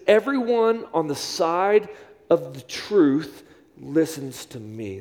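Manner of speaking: slow, deliberate reading of Jesus's words; measured scripture quote; slow quoted scripture. Shown as a demonstration. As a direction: lay each word down slowly for them to memorize. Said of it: "I want you to memorize this".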